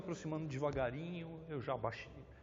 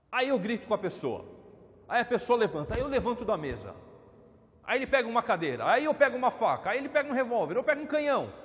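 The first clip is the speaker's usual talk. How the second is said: escalating shout; 9 semitones higher, 7 dB louder than usual. Retold or imitated. Escalating fight retold.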